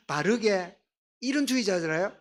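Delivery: normal talking voice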